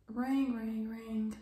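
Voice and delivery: ring, ring, ring as a dial tone; imitated phone ring. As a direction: mimic a phone ringing out. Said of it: "I'm calling".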